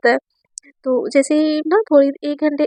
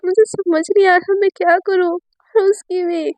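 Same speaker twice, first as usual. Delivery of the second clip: sobbing; 3 semitones higher than usual. Acted. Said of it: "सिसकियाँ सुनाई देती है".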